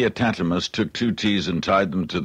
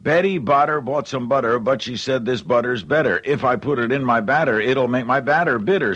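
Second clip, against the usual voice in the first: plain; 3 semitones higher than usual. Shown as a demonstration. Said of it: "Here's what it sounds like pretty fast".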